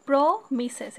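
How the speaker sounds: "প্রমিসেস" slowly, leaning on a drawn-out first syllable pro; syllable-by-syllable split. Shown as a demonstration. Teacher showing syllables, "প্রমিসেস" pulled apart slowly. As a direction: stretch "প্রমিসেস" into pro, then mises. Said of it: "এখানে তিনটা আছে".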